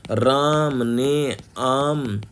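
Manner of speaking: whispered example sentence. Shown as a demonstration. Teacher reads the example sentence aside in a whisper. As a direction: breathe the sample sentence, unvoiced. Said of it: "चारों जो शब्द हैं".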